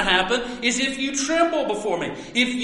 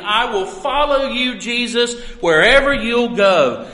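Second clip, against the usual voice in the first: boastful vow, pushing louder at the end; arrogant proclamation; 3 semitones higher, 4 dB louder than usual. Retold or imitated. Scribe boasting to Jesus he'll follow, arrogant proclamation. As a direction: proclaim it like you're above needing humility. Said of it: "when he arrogantly proclaimed".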